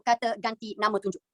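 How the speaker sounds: "Kata ganti nama tunjuk" spelled out slowly, word by word; slow down and drive "Kata ganti nama tunjuk" home; slow emphatic repeat. Shown as a demonstration. Teacher repeating the term so students remember it, slow and deliberate. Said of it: "tersebut adalah kata ganti nama tunjuk".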